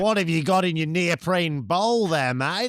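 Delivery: mock policeman. Mock policeman questioning them.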